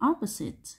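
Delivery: "opposite" stressed on its first syllable "op". Shown as a demonstration. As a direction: lean on "op" in "opposite". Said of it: "nhấn âm một". (nhấn âm một "op" trong "opposite")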